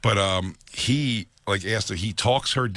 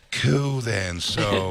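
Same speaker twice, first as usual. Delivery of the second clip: mock nonchalant sign-off; imitated unemotional john; much slower than usual. Comic imitating the john leaving afterwards, casually unbothered. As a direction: shrug it off with no emotional shift. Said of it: "never has an emotional shift".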